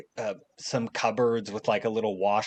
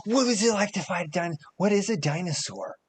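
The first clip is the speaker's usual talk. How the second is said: high, fast babble; hyper kid; 8 semitones higher than usual. Acted. Boy jumping on couches asking, high and quick. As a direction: rattle it off bouncing.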